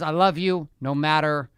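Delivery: slow and softening to a hush on what; tender, slow father's vow; sincere phrase. Shown as a demonstration. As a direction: lay it down gently as a promise. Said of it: "the phrase that I've used is".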